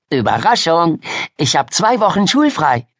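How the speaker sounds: high, bubbly best-friend voice; excited girl. Acted. Miriam surprising Ida with a visit, excited. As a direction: announce it as a big surprise.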